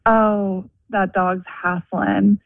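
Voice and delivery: lightly imitated Southern drawl, slow; unhurried Southern-accented remark. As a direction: quote a friend with a hint of Southern accent. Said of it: "in her Southern accent".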